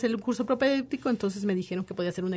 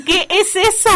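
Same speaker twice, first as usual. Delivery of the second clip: high, loud, bewildered "what is that"; baffled question; 10 semitones higher, 12 dB louder, slower than usual. Retold or imitated. Newcomer hearing a strange street address, high baffled cry. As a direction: exclaim it in total confusion. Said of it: "yo dije".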